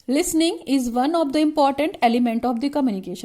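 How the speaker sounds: reads the point out slowly, word by word; slow dictation. Shown as a demonstration. Teacher dictating a syllabus point to students, slow and measured.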